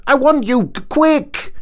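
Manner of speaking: high, loud, eager Mole voice; excited Mole. A narrator's reading. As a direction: urge Ratty back, bursting with excitement. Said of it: "full of joyful excitement".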